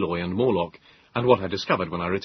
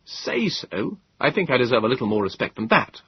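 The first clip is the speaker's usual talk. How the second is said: rising anger; 4 semitones higher than usual. Acted. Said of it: "I said in rising anger".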